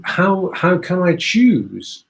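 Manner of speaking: slow, lightly mock-overwhelmed plea; a traveller in a tiny supermarket, mildly mock-overwhelmed. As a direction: drag it out, lost among the shelves. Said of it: "and go".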